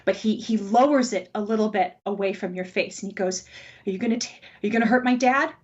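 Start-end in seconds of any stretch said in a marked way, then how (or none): 3.8-5.5 quick, a bit louder frightened question; scared boy. Acted. Frightened boy asking the stranger about his dad. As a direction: ask it fast, afraid for his father. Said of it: "he's so scared".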